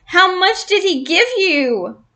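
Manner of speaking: high, squeaky question; squeaked question. A narrator's reading. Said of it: "I squeaked".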